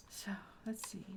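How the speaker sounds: hushed, breathy whisper. Real, not acted. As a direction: whisper it like sneaking. Sneaking in game.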